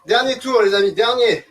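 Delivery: loud rallying shout to the class; barking gym coach. Real, not acted. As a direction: push them through the last round. Coach urging class, final round.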